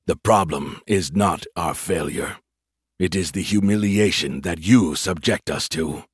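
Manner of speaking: low, slow proud alien voice; heavy and wounded, slow alien; alien admiral. Acted.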